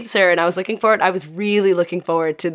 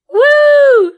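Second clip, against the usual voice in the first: a sudden, much higher and louder cheering "Woo!"; excited whoop; 10 dB louder than usual. Retold or imitated. Cheering at the joke about burning Twilight, loud whoop. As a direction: let out a big delighted whoop. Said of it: "and I went".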